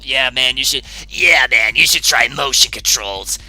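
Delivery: sarcastic. Real, not acted. Sarcastic reply to chat.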